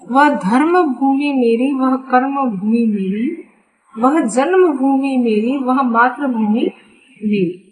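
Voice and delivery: rhythmic, evenly phrased refrain; poem recitation. Acted. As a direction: recite it in regular, parallel lines.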